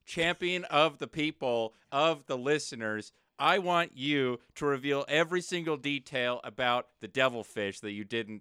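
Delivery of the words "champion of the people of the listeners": slow, pompous herald voice; grandiose proclamation. Pretend. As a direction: proclaim yourself like a hero. Grand self-title, slow.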